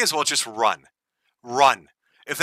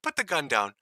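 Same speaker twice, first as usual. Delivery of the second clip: hushed, scolding dog owner voice; mock owner softly scolding a bad dog; 5 dB quieter than usual. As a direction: scold her quietly like a puppy on the carpet. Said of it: "sounds like he's trying to train a dog".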